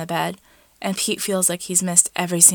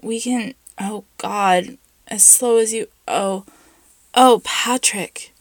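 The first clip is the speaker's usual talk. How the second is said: breathless whisper; 4 semitones higher, 4 dB louder, slower than usual. A narrator's reading. Pete aroused, breathless pleading.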